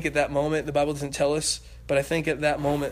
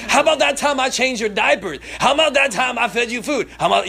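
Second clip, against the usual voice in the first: high, loud, sarcastic listing; father getting back in face; 6 semitones higher, 8 dB louder than usual. Acted. Father reminding son of diapers, sarcastic and loud. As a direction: throw every favour back at him. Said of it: "get back up in his face".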